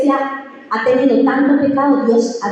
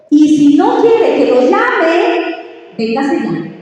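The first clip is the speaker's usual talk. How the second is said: raised, slow, commanding voice; preacher's challenge, slowed and raised; stern call; 4 semitones higher, 4 dB louder, much slower than usual. Retold or imitated. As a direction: call them forward with slow force. Preacher quoting the visiting pastor's call.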